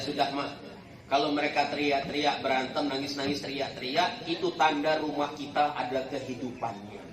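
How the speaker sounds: low, softened quote to wife; calm reassurance. Retold or imitated. Husband tells wife about noisy children, low calm reassurance. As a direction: reassure her in a low, soft voice.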